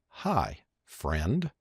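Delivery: quiet one-to-one greeting; personal greeting. Shown as a demonstration. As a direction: greet a single person gently. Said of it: "You have to say".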